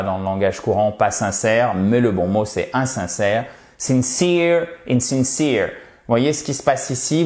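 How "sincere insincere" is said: "insincere" with the stress on -cere; stress on the second syllable. Shown as a demonstration. Teacher models the word stress for learners. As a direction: lean on -cere in "sincere" and "insincere". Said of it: "porteuse de l'accent tonique".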